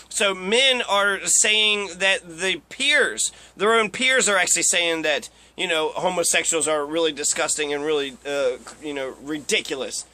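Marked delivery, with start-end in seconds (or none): 5.6-10.1 odd mocking tone. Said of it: "I don't know why I said it like that".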